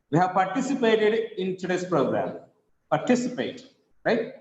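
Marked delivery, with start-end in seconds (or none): 2.9-3.7 "Participate" with weight on TI; par-TI-cipate, falling to the end; stress on second syllable. Shown as a demonstration. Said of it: "the second syllable stress".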